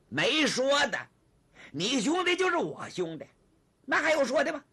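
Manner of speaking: loud, high, emphatic promise; acted booming reassurance; hearty assurance. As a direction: agree at once with big theatrical heartiness. Zhang heartily promises his help.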